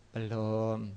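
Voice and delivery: low, soft, unadorned "belum"; honest answer. Acted. Person sincerely admits they haven't eaten yet, honest low answer. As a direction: answer quietly and plainly, nothing to hide. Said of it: "Dia ngomong apa adanya".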